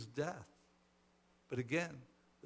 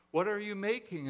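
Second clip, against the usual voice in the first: raised, higher questioning shout; 6 semitones higher, 6 dB louder than usual. A narrator's reading. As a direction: call out the question, demanding an answer. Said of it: "another shouted even louder".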